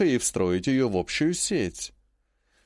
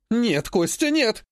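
exclaiming; 9 semitones higher, slower than usual. A narrator's reading. Grandmother protests losing the house, exclaiming high. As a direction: cry out to stop him. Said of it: "воскликнула она".

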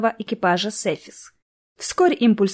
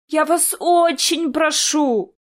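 slow pleading, pitched up high; desperate plea; 7 semitones higher, much slower than usual. A narrator's reading. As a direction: beg them, drawing out every word. (медленная отчаянная мольба)

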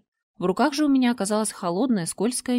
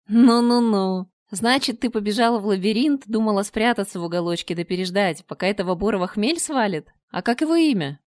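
a monster toying with its prey; 4 dB louder than usual. Acted. Чудовище говорит с царевной. (чудовище лениво дразнит пленницу)

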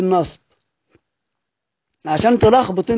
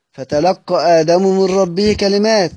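recitation; slower than usual. Shown as a demonstration. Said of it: "الكلمتين دول بتقرأ إزاي؟".

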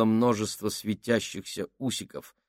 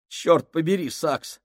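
sharp, higher angry curse; cursing; 7 semitones higher than usual. Acted. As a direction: spit out the curse at him. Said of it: "выругался Мюнхгаус". (ругаясь, резко и громко)

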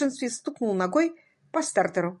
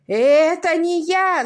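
higher, louder, slow desperate yell; shout; 9 semitones higher, 8 dB louder, slower than usual. Acted. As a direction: scream your innocence. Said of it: "закричал Симпкинс".

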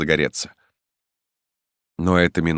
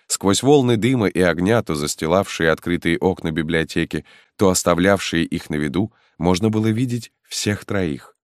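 ordinary delivery, nothing marked

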